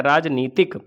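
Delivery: राजनीतिक mit langem ई, langsam und deutlich; राजनीतिक: नी mit langem i, nicht नै; correct form. Shown as a demonstration. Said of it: "राजनैतिक नहीं होता है".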